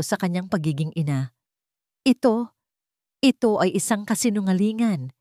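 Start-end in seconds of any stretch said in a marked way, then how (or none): 2.0-5.1 shouting in anger. Acted. Mother shouting at the lawyers at her door, shaking with anger. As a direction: hurl the denial back, voice shaking. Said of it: "sigaw ni Ligaya".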